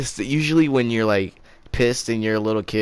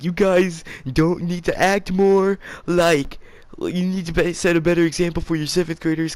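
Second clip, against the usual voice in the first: high-pitched imitation of a crying teacher; mock tearful scolding; 8 semitones higher than usual. Crying teacher scolds her eighth graders, mock tearful. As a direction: whine it out high, as if in tears. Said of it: "she started crying".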